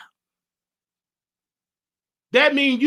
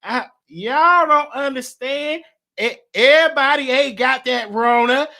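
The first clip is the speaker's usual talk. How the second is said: a hint of a hard-headed granny brushing it off; granny dismissing the grandchild's worries, lightly voiced; grandma's voice. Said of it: "I'm gonna do it in her voice".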